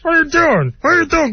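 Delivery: high, strained wincing voice; a high, strained imitation; mock strained voice. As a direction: squeeze it out high and tight. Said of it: "He doesn't talk like that".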